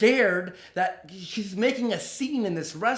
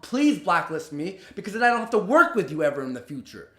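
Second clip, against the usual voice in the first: inner angry rant. Retold or imitated. Venting at the rude producer in imagined retort, angrily. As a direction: let the silent fury spill out. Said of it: "in my head, I'm thinking".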